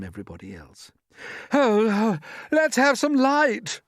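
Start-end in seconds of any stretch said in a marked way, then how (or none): 1.5-3.8 high, loud, slow shout in the dark. Acted. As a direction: call out for light, loud and high. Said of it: "shouted the centipede".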